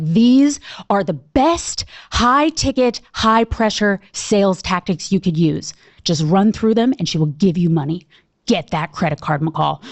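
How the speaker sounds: a hint of a salesy guru talking her up; pushy sales mentor. Jenny voiced pushing sales tactics.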